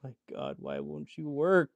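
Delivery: slow, exasperated plea; pleading with a machine. Real, not acted. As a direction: drag it out in exasperation. Pleading with the needle.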